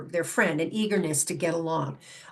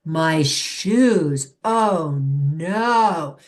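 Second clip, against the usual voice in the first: louder, a demonstrated upset groan; the owner demonstrating disappointment over chewed shoes, louder; 3 semitones lower, 5 dB louder, much slower than usual. Shown as a demonstration. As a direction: show the dog you're upset, louder. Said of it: "as I began our chat".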